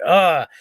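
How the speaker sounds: loud exasperated ugh; frustrated groan. Retold or imitated. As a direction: groan it out, fed up. Voicing frustrated groan at gout.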